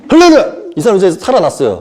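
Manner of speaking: hammed-up revival shout; mock faith healer. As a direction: burst out like a parody miracle worker. Parody of Methodist miracle healer.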